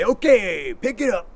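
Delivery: brisk urging. Shown as a demonstration. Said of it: "you say".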